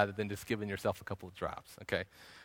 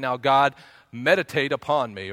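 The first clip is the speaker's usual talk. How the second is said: mock passive prayer; 7 dB louder than usual. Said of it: "not just me saying".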